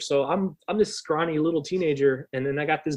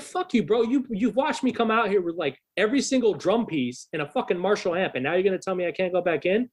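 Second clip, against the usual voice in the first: higher-pitched indignant mock rant at the guard; indignant teen snapping at security, pitched up; retold angry outburst; 4 semitones higher than usual. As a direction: replay your teenage fury at the bouncer, pitched up. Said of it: "So I'm starting to get irate".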